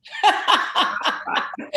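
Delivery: high, breathless laugh that bursts out; high burst of laughter. Real, not acted. Guest laughing at her evolution joke, bright laugh. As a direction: laugh out loud at your own joke.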